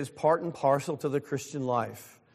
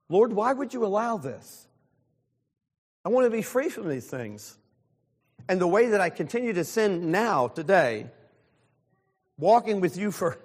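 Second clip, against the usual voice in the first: higher, pleading cry to God, a touch of self-pity; pleading prayer; 4 semitones higher than usual. Retold or imitated. Pastor retelling his own begging prayer about besetting sin, raised and pleading. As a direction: beg the Lord like a frustrated child.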